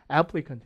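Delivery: "applicant" stressed on "AP", then falling away; stress on first syllable. Shown as a demonstration. Teacher pointing out shifted stress, front-stressed "applicant". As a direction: punch the start of "applicant". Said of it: "강세가 좀 틀리죠".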